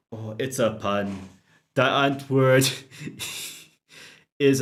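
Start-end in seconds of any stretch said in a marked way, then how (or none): 1.7-2.7 put-on Afrikaner accent. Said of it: "can't even say South African without putting".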